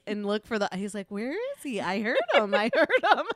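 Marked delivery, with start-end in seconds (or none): 1.1-3.2 put-on high, loud eager kid. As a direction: call it out like a searching kid. Child searching, quoted.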